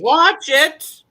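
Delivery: loud, high retort; shouted comeback, standing up to a bully; sharp warning. Acted. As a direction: cut in forcefully with a warning. Cuts off the yelling man.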